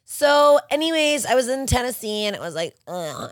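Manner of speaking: mocking chatty women. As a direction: mimic the dull gossip at the next table. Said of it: "these women behind us talking".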